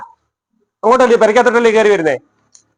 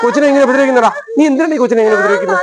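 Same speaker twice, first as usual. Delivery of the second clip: higher, rapid telling-off; angry scolding; 6 semitones higher, faster than usual. Real, not acted. Father scolding Appu for hurting the little girl, higher and fast. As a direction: tear into him, rushing the words.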